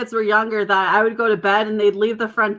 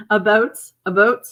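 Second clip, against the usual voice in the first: mock Canadian accent. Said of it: "making fun of my Canadian accent".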